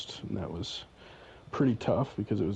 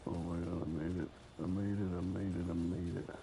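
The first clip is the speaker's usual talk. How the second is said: quiet, lower relieved disbelief; 3 semitones lower, 6 dB quieter than usual. Real, not acted. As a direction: breathe it out in relief. Just reached the boss area.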